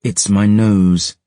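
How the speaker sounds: put-on drawn-out haughty young lady; slow, dismissive noble girl. Noble girl shrugs off her bleeding nose, slow. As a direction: wave it off like it's nothing.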